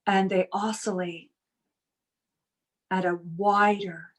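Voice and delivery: measured meditation guide with long pauses between phrases; guided meditation. Real, not acted. Teacher easing workshop group into relaxation, guided meditation. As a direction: lead them into calm, unhurried, lingering on key words.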